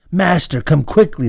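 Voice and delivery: calling out loud and high for help; urgent cry for help; shouted call. A narrator's reading. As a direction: shout for the master in alarm. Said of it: "the girl shouted".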